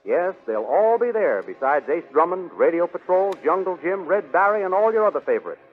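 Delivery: put-on booming old-time serial announcer; announcer hyping the Sunday comics; radio announcer. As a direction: sell next week's episode with gusto. Announcer closes and reads ad.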